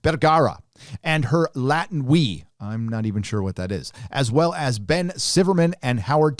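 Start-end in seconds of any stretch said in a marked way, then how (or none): 0.0-0.6 careful name. Shown as a demonstration. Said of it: "gonna have to say this name slowly".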